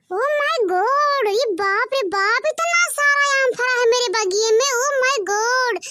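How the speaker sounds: hammed-up wide-eyed surprise; amazed. Real, not acted. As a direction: gush over the mangoes in wonder. Amazed at mango tree.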